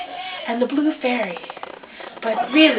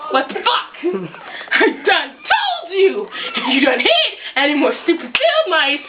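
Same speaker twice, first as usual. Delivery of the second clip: laughing rant; 5 semitones higher than usual. Acted. Fairy rants, laughing.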